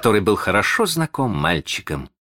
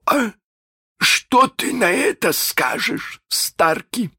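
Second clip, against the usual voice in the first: menacing captain. Acted. Hook menaces Starkey, high and silky. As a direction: threaten him with false sweetness.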